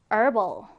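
"herbal" said as "erbal", no H; "herbal" starting straight on the vowel; silent-H herbal. Shown as a demonstration. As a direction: drop the H in "herbal", American style. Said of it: "H 발음 하지 않아요".

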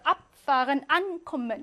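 "abfahren," and "ankommen" with strong first syllables ab and an; strong prefix stress. Shown as a demonstration. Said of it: "이렇게 강하게 하고요".

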